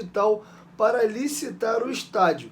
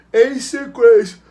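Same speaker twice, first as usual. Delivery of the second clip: words stretched by a yawn; 2 semitones higher, 9 dB louder than usual. Real, not acted. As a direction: speak through a yawn. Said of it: "desculpa o bocejo".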